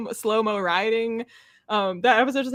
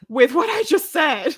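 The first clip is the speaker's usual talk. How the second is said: mock baffled; 7 semitones higher, 6 dB louder than usual. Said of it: "And you're like".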